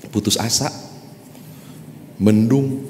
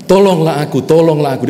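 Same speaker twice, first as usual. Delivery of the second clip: high, much louder shout for help; shouted plea; 7 semitones higher, 7 dB louder, faster than usual. Acted. Climber hanging over the cliff, shouting loud for help. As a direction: yell it out, begging for rescue. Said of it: "Dia teriak begitu".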